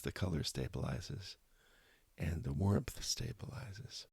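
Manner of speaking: calm guided-meditation voice with long pauses between phrases. Real, not acted. Meditation teacher invites listeners to smile gently and breathe, calm guided meditation. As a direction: gently lead listeners inward, leaving space after each phrase.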